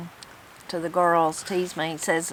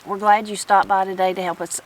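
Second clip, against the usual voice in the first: shivering; 3 dB louder than usual. Real, not acted. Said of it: "my lips are too cold".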